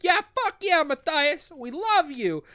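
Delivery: high-pitched adoring cheer; hammed-up excited fan praise; mock cheering crowd. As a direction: whoop support like a rallying crowd. Crowd cheers hero, retold.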